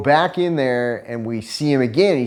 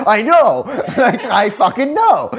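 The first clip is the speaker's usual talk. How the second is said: laughing it out; 11 semitones higher, 4 dB louder than usual. Retold or imitated. Laughing while retelling outburst.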